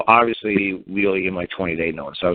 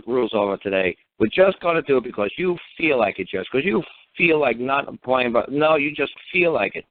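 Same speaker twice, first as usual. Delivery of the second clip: higher, emphatic mock rant, imitating; furious prosecutor; 3 semitones higher than usual. Prosecutor accusing judge of ignoring the rules, mock furious. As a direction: retell a lawyer's exasperated tirade with swooping stresses. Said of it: "the third time he just lost his cookies".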